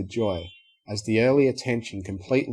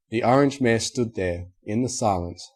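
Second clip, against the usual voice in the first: ordinary delivery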